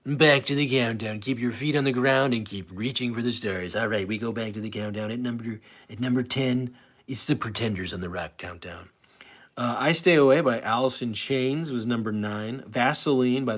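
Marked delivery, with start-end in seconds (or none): 0.0-8.9 lightly voiced radio countdown host; a hint of a smooth DJ patter; Casey Kasem style. Host counting down songs to his stream viewers, in a light Casey Kasem style. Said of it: "I'm gonna do it Casey Kasem style".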